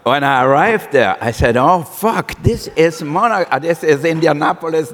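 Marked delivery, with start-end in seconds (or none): 1.6-4.9 higher-pitched mock dismayed exclamation; lightly hammed-up letdown; retold dismay. Chef retells his arrival in Indianapolis, mock dismayed.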